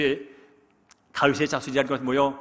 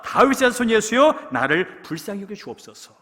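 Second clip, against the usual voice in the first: loud, high pleading shout; desperate cry; 8 semitones higher, 7 dB louder than usual. Retold or imitated. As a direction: cry out to be heard over the crowd. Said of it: "소리를 칩니다".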